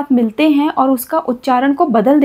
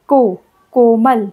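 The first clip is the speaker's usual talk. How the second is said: slowed demo; 2 semitones lower, much slower than usual. Shown as a demonstration. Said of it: "slow demo of o matra".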